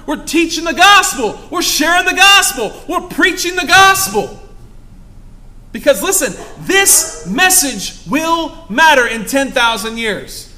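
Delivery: shouting, high gospel proclamation; fervent shouted preaching; preaching at full force. Acted. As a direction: ring it out to the back row.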